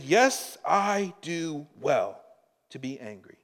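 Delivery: a hint of stubborn Jonah, pitch jumping up; Jonah's defiant reply. Preacher voices Jonah talking back to God, mildly defiant. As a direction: read Jonah's answer with a touch of defiance. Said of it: "And he said".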